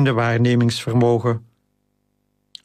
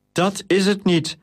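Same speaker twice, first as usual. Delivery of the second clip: higher-pitched, unsure denial; a touch of flustered stammer, pitched up; stammered protest; 7 semitones higher than usual. A narrator's reading. Junia answers the old caretaker's doubt, stammering. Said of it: "stamelde Junia".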